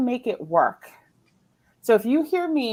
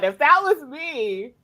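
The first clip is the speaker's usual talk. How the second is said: mock grievance; 4 semitones higher than usual. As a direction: imitate an aggrieved sibling's complaint. Family's complaint repeated.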